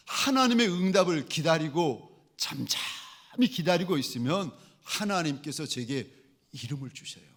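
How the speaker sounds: ordinary talk, nothing marked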